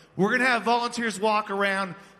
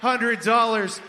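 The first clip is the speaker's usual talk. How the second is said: auctioneer calling bids. Acted. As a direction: keep the room bidding with big energy. Charity auction bid calling.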